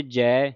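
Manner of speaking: "ਜੈ" with an open ai; open ai vowel. Shown as a demonstration. Teacher points out dulavan, open vowel in "ਜੈ". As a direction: say "ਜੈ" as jai, not je. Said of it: "ਦਲਾਵਾਂ ਦੇ ਨਾਲ".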